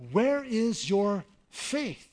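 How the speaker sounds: slow, drawn-out, gently correcting question; gentle instructive tone. Shown as a demonstration. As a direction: ask it like a patient teacher, not a scold. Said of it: "not a harsh tone ... instructive".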